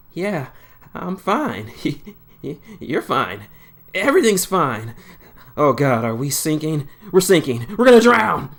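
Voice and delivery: rising panic, from nervous denial to a loud scream; panicking. A narrator's reading. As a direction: spiral from forced calm into full panic. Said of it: "as he panicked in her arms".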